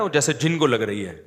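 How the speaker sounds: ordinary talk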